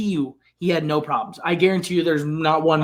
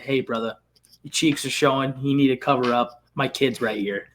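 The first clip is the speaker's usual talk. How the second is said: timid request; 4 semitones lower, 6 dB quieter than usual. Retold or imitated. Timid guy confronting naked Tyson.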